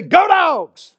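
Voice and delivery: loud, high rally cry; a Georgia fan hollering Go Dogs; fan cheer. Retold or imitated. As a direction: shout it for your team. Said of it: "Georgia fans say".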